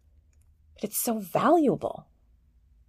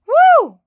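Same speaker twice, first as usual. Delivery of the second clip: high, loud whoop of excitement; excited woo; 11 dB louder than usual. Real, not acted. Host cheering about taming the nervous system, high loud woo. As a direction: let out a joyful whoop. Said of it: "exclamation about nervous system".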